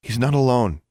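high, quick cut-in; pointed interjection; interrupting. A narrator's reading. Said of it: "Alexandra interrupted".

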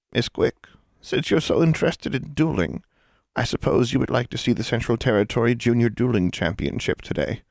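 lightly voiced prim old teacher; a hint of a dry schoolmistress; stern teacher. Teacher voice in reading.

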